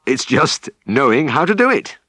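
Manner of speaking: a farmer cheering up a tired helper; good-humoured farmer. Acted. Farmer consoles lad, laughing.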